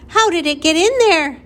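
high, loud shout of shock. A narrator's reading. Flora's mother shouts about the squirrel on her lamp, shouted. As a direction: shout it high, demanding an explanation. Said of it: "shouted Flora's mother".

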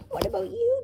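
high-pitched, anxious question; horrified cry. A narrator's reading. Ben to the professor staying behind, horrified. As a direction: cry out in horror for a friend. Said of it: "Ben cried, horrified".

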